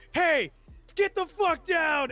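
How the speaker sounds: high, loud, drawn-out command; retold yelled order. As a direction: imitate a sergeant yelling at a private. Retelling sergeants yelling an order.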